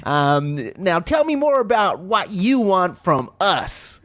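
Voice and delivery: lightly voiced gushing American manager. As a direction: play a schmoozy meeting host, drawn out in places. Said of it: "break down for me how that meeting goes".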